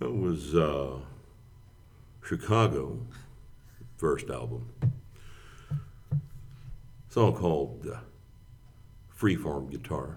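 radio announcer voice. A former broadcaster demonstrating his fm radio voice to a co-host. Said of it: "So that's the FM voice".

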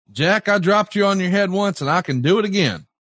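put-on high, clear and pointed delivery. An interviewer recounts what a wrestler said at a press conference, loud and clear. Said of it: "in a loud and clear voice".

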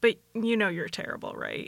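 dry, quiet, deadpan delivery. Talking about interviews, imitating Dennis's deadpan delivery. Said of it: "so deadpan".

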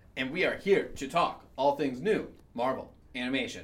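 mechanical, machine-like robot voice. Hosting the This Week in Marvel intro, announcing the topic in a robot voice. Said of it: "I don't know why I'm talking like a robot".

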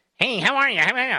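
nasal caricature voice. Showing the producer's imitation of the speaker: nasal imitation of the speaker. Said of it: "that's his imitation".

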